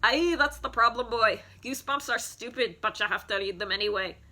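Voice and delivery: stereotypical Scottish woman as teacher; lightly put-on Scottish scolding; Scottish accent. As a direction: play a mean Scottish schoolteacher. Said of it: "I was doing a Scottish accent".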